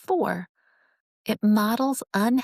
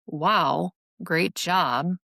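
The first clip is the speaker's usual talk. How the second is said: dry, sarcastic compliment; 2 semitones lower, much slower than usual. Shown as a demonstration. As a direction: say the praise as if you mean the opposite. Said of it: "here's why sarcasm".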